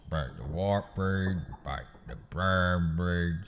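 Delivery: low Cockney gangster tempting a guest; Cockney gangster offering bread; Alfie Solomons impression. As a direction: offer the bread like a menacing host. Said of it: "the iconic brown bread scene".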